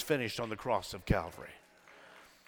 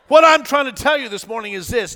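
higher, emphatic preacher's declaration; full-force preaching; 7 semitones higher, 6 dB louder than usual. Real, not acted. Preacher telling congregation this morning's point, full-force preaching. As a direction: drive the point home from the pulpit.

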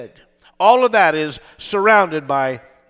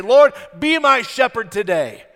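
raised-pitch plea to God; prayerful appeal; 5 semitones higher than usual. Acted. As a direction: call up to God in earnest prayer. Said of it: "lift your hands and say".

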